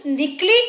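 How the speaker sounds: "निकली" with both vowels short; quick wrong-form "निकली"; short final i. Shown as a demonstration. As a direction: keep the end of "निकली" brief. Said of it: "छोटी की मात्रा अगर आएगी".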